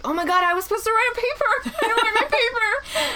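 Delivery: half-laughing fake alarm over a forgotten paper; mock panic. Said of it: "I immediately got anxiety".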